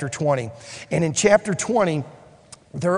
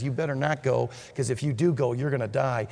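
lower, softer, plain-spoken warning; sober warning; 6 semitones lower, 6 dB quieter than usual. Acted. Prophet warns Ahab of his death, low sober warning. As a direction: drop low and quiet to warn him.

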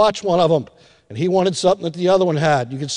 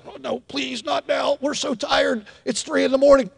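soft pleading; 5 semitones higher, 5 dB quieter than usual. Retold or imitated. Tired parent pleading at night.

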